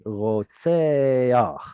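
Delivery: rotseach with an "ah" before the final ch; furtive vowel. Shown as a demonstration. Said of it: "like the vowel came first".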